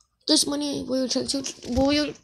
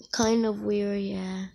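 hushed and a bit lower; whispered aside; 3 semitones lower, 5 dB quieter, slower than usual. Real, not acted. Snooping in a stranger's house, whispered. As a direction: whisper it like you might get caught.

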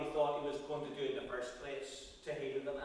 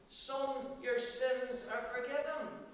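"Son, your sins are forgiven" said higher, with the stress on "your"; raised, emphatic pronouncement; lifted restatement; 7 semitones higher, slower than usual. Acted. The same words repeated as Jesus.

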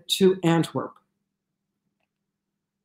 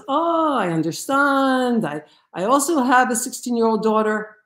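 stewardess reply; 6 semitones higher than usual. Retold or imitated. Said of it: "And the stewardess says".

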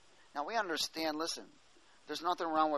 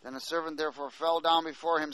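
steady, raised reading voice; scripture reading. Acted. Preacher reading Matthew eighteen to congregation, raised reading voice. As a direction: read the parable out to the congregation.

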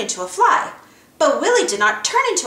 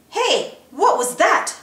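wondering giant; 8 semitones higher, slower than usual. A narrator's reading. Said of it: "Willy wondered".

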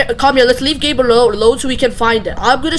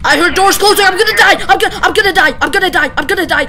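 yelling across the room; 5 semitones higher, faster than usual. Real, not acted. Hears doors, panics loudly.

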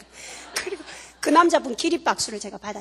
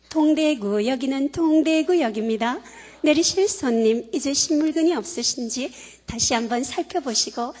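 standard station announcement; 4 dB louder than usual. Retold or imitated. Speaker imitating the Dongdaegu arrival announcement, standard formal voice. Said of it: "어떻게 나오냐면 이렇게 나옵니다".

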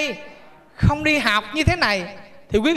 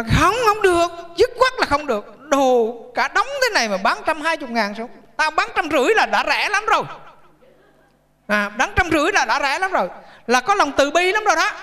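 put-on stubborn old woman; 3 semitones higher than usual. Old woman refusing the poor buyer's haggling, mock indignant.

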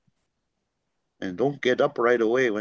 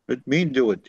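a mildly louder demand; mock a child insisting; imitating son insisting, kinda loud; 2 semitones higher, 4 dB louder than usual. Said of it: "kinda loud".

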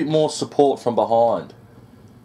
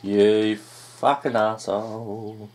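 slow curse; 2 semitones lower, much slower than usual. Real, not acted. Cursing after dying.

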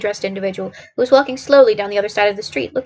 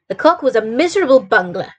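a touch of irritation; dismissive, mildly angry verdict; mild anger; 3 semitones higher than usual. Acted. Holmes scorns a fictional detective to Watson, mildly angry. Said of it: "he said in an angry voice".

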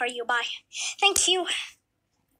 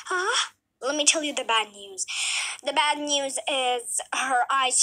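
lightly voiced doctor; 2 semitones lower than usual. Doctor gives diagnosis.

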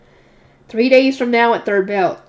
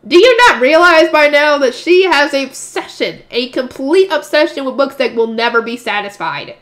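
slow, louder, do you not realize; exasperated aside; 3 semitones higher, 4 dB louder than usual. Real, not acted. Reader exasperated at Cornelia, slow and loud. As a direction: lean on it, incredulous.

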